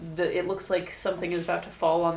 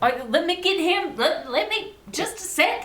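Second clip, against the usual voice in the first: put-on Southern woman accent, very high-pitched and loud; 11 semitones higher, 6 dB louder than usual. Speaking as a character answering a call for help; Southern woman accent. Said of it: "Why are you talking like a southern woman?".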